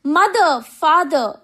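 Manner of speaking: high, loud call for missing parents; narrated child's loud cry. A narrator's reading. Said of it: "he cried again and again".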